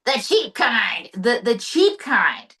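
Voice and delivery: Trump impression. S0 voices Trump-like husband.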